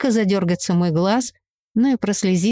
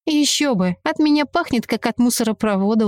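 smirking; 3 semitones higher than usual. Acted. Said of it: "усмехнулась я".

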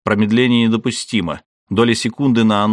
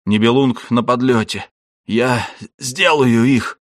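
synthesized voice; 3 semitones higher than usual. A narrator's reading. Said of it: "прохрипел синтезированный голос".

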